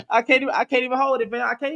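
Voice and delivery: high laughing squeal through the words; real laughter breaking the words; cracking up. Real, not acted. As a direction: laugh too hard to finish the line. Cracking up on stream.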